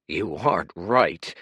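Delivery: growled. Acted. Kuruk confronting Dorian, growling. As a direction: growl the suspicion. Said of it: "growled Kuruk".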